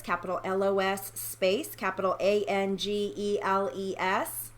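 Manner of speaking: spelling it letter by letter; careful spelling-out; dictating. Shown as a demonstration. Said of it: "Los Angeles".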